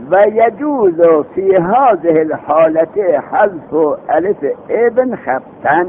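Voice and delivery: slow, measured reading of the Arabic rule; slow recitation of the grammar text. Shown as a demonstration. Reads the Arabic grammar text aloud.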